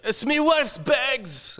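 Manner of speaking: high, drawn-out attempt at Scottish; high-pitched mock Scottish; bad Scottish accent. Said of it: "I can't do a Scottish accent".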